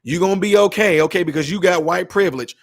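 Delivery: mildly sarcastic, fake-soothing "honey"; sarcastic mock comfort. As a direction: pretend to comfort her while mocking the idea. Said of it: "rolled past her and said".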